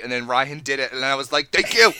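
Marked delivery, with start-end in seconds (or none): 1.5-1.9 higher, louder mock thanks; exclaimed retold thanks; retold vindication. Retells their triumphant vindicated reaction.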